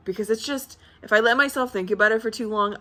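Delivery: ordinary talk, nothing marked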